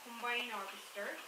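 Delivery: put-on farmer's West Country accent. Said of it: "try to do a West Country accent".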